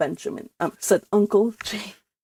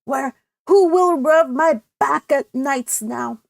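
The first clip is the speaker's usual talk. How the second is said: mild mock self-pity; pathetic; 5 semitones higher, 4 dB louder than usual. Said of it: "said Cousin Stickles pathetically".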